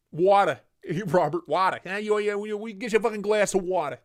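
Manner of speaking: put-on accent, "water" with no final R; mock R-dropping accent. Mimics an accent saying water.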